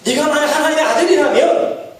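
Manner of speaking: mock the challenge with an upturned finish; mocking taunt. Shown as a demonstration. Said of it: "똑같잖아요".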